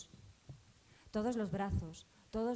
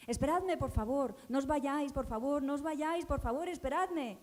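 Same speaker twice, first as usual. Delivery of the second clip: pleading cries, higher and louder; desperate pleading; 5 semitones higher, 4 dB louder than usual. Acted. Girl calling after the departing Three Kings, pleading higher and louder. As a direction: beg them not to leave you. Girl begs Magi to wait.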